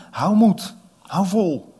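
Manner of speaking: rally the exhausted rowers; loud encouraging call. Acted. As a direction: call it out high and loud over the waves. Jesus calling over the sea. (luide aanmoediging)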